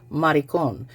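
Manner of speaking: "maricon" said the Spanish way, stress on the last syllable; Spanish pronunciation. Shown as a demonstration. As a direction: say "maricon" as a Spanish speaker would, ending "-cón". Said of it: "that's the way to pronounce that in Spanish".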